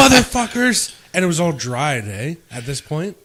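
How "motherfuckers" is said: angry yelling. Retold or imitated. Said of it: "yelling and swearing at us".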